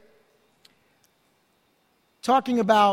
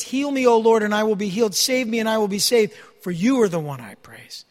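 scripture reading. Acted. Rereads the prayer verses.

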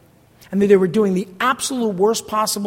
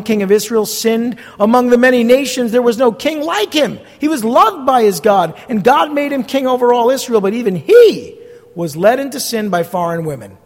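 louder, higher proclaiming; emphatic scripture reading; 4 semitones higher, 6 dB louder than usual. Acted. Pastor reading Nehemiah's rebuke to the congregation, loud and emphatic. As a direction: build the king's praise before the fall.

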